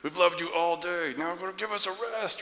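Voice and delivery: high, pleading parent at bedtime; worn-out parent begging for rest. Acted. Parent asking the children for a break, mock-loving plea. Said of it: "then we lovingly say".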